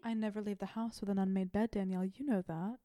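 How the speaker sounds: a hint of serene housewife calm; mock calm Bree. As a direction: play it unbothered and prim. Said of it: "And she's very calm".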